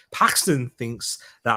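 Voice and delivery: put-on slow, light Scouse accent on the name. Host reading out a viewer prediction in a Scouse accent. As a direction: slip into a bit of Scouse, slowly. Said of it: "I don't know why I said it in a Scouse accent".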